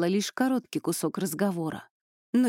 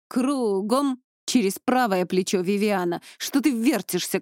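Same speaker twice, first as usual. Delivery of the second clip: drill orders. Acted. Instructor drilling squad.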